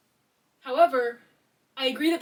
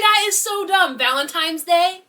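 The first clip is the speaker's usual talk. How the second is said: scornful; 6 semitones higher, 11 dB louder, slower than usual. Real, not acted. Scornful disbelief.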